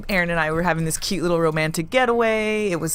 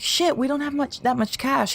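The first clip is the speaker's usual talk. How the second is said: retold dismay; 8 semitones higher than usual. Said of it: "I was like".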